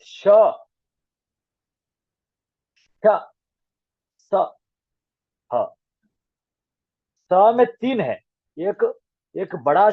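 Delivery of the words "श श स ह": श, श, स, ह each said slowly and clearly apart; sibilant demo. Shown as a demonstration. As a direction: separate the three sibilants carefully. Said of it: "स में उच्चारण ऐसा है".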